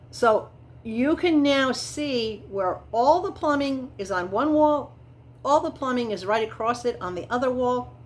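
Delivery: talking through the hiccups; hiccupping between words. Real, not acted. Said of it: "Excuse me, I got the hiccups".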